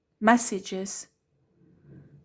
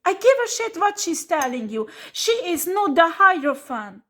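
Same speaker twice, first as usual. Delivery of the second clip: angry scolding; 5 semitones higher, 3 dB louder than usual. Real, not acted. Furious rant at a client.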